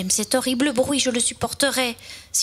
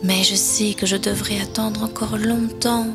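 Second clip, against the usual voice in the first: understated, slightly lowered resignation; mildly sad; 2 semitones lower than usual. Acted. Little fir expects a long wait, mildly sad. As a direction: let a touch of sadness in. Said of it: "dit-il tristement".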